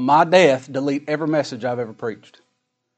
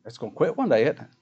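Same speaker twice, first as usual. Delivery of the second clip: raised, forceful pulpit delivery; preaching scripture; 4 semitones higher, 7 dB louder than usual. Acted. Preacher expounding what will pass away, loud emphatic preaching. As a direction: hit each clause hard, then comment on it.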